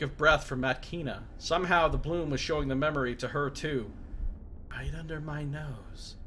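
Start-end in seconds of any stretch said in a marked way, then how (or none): 4.7-6.1 hushed, stunned whisper. A narrator's reading. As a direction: breathe it out in shock. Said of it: "she whispers".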